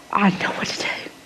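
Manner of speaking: real whisper. Real, not acted. Grieving mother admitting to the audience she was lost, barely whispered. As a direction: let the voice drop away to nothing.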